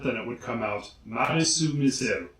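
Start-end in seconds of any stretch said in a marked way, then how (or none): 1.0-2.3 a band name in a Japanese accent, the first word as "Madisu". Shown as a demonstration. Demonstrating a Japanese accent on the band name, Japanese accent. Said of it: "if you want to say it with a Japanese accent".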